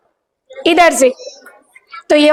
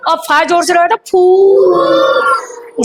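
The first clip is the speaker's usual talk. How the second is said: slowed teaching voice; much slower than usual. Shown as a demonstration. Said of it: "पा धीरे से रोया तो बन गया फू".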